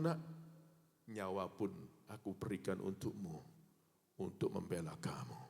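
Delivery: put-on calm a terrified child; soothing parent. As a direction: parent comforts a child chased by a dog. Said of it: "orang tuanya bilang begini".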